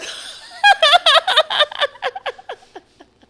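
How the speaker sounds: shrieking laugh; long burst of laughter; cackling high laugh; loud high laugh. Real, not acted. Laughs at the fight story.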